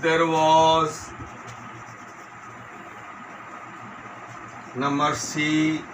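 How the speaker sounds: slow word-by-word dictation; measured classroom dictation. Shown as a demonstration. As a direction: dictate with long gaps, each word drawn out level. Dictates exercise sentence.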